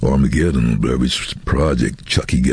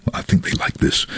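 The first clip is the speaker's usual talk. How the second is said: whispered thought. Retold or imitated. Inner thought, unvoiced.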